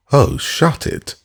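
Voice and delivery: high, slow, fed-up brush-off; spectacled man cutting off drunk Syme, exasperated. A narrator's reading. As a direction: wave him off in exasperation.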